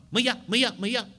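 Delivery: a loud, high, ringing call of the name. A narrator's reading. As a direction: call her from somewhere unseen. Mystical voice calling Sita.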